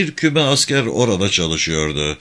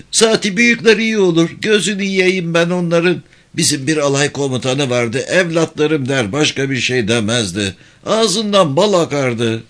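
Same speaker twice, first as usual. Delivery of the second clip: high-pitched rustic character voice; high-voiced country soldier reminiscing; admiring villager; 6 semitones higher than usual. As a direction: praise them fondly, voice pitched up. Villager character praising good commanders.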